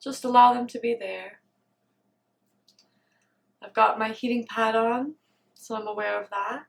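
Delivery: quiet meditation voice with long pauses; guided meditation. Real, not acted. Meditator noticing body, breath and soothing warmth, guided meditation. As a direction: settle into stillness, leaving space between phrases.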